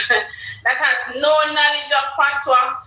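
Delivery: laughing through the words, slowed. Real, not acted. Host asking for a non-Jamaican volunteer, laughing. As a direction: giggle while you ask.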